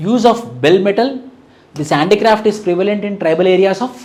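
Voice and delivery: slow, spaced dictation for notes. Acted. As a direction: dictate each phrase slowly so students can write. (నెమ్మదిగా notes చెప్పడం)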